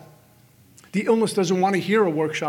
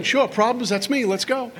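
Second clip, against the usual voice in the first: game for trouble, pitched up; eager; 4 semitones higher than usual. Acted. Mind joining in on the morning's problems, eager. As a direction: eagerly jump right in, higher pitch.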